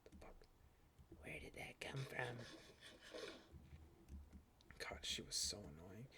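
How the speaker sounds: hushed, breathy aside; soft shocked whisper to yourself; startled whisper. Real, not acted. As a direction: whisper it under your breath. Startled muttering to self.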